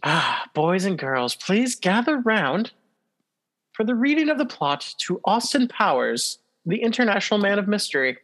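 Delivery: put-on gather the kids round, spooky host; horror host. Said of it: "give us a little plot breakdown".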